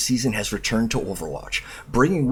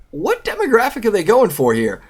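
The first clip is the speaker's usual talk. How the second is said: asked through a laugh, pitched up; laughing question; 9 semitones higher, 5 dB louder than usual. Real, not acted. Mocking the pretentious article, laughing aloud. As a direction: giggle while asking who this is for.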